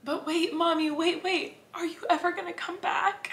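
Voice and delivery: little son's voice. Retold or imitated. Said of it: "he said".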